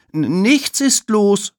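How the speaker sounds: put-on high, slow, stammering child's call; stammered high call of denial; caught-out cry. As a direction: blurt it out, flustered and caught. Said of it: "ruft Emma".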